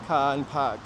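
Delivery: Boston-accented vowels, R's left off; a touch of Boston on car and park. Shown as a demonstration. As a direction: drop the R's, Boston style. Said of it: "I don't have a Boston accent, though, except for".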